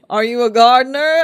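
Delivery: lightly voiced loud older-woman gusher; older woman's eager question, hammed up a little. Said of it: "older woman in my life".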